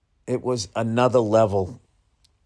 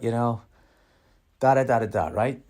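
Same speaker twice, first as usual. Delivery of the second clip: ordinary delivery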